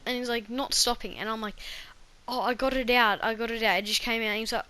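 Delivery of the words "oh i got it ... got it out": pained cry. Retold or imitated. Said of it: "under so much pain".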